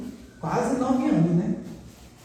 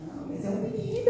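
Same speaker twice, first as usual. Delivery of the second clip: insistent husband; 14 semitones higher, 7 dB quieter than usual. Retold or imitated. Marido teimoso imitado.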